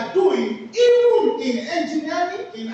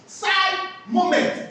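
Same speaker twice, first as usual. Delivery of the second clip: slow quoted name; 3 semitones higher, much slower than usual. Retold or imitated. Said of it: "put that thing and said".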